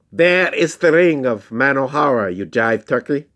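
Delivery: high, loud villain taunt; lightly hammed-up villain. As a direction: sneer it like a cartoon villain. Villain voiced in story.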